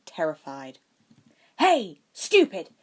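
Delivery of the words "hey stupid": loud, slow, higher taunting yell. A narrator's reading. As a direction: draw the troll's attention. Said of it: "Draco yelled".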